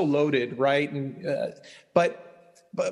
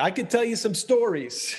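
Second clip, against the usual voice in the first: put-on higher Long Island Jewish accent storyteller; 7 semitones higher than usual. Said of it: "a good Jewish accent".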